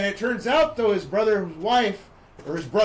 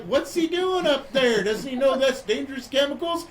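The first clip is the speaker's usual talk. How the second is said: high-pitched mock concern; alarmed questioning; 6 semitones higher than usual. Onlookers watching the crop duster swerve, alarmed questioning. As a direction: act out onlookers getting worried.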